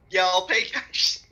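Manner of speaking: man lightly doing a woman's voice; slow, a hint of a lady customer voice. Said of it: "That's my lady voice".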